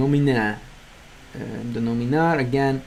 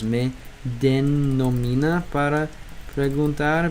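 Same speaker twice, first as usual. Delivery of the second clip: slow sounding out; 4 dB quieter, slower than usual. Shown as a demonstration.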